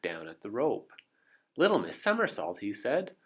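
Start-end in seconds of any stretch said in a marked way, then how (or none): 1.6-2.6 alarmed. Acted. Mister Brave warns of danger.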